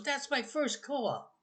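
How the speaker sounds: put-on high and slow, a little kid proudly claiming the car; child voice. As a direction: say it like a tiny boy with a big secret.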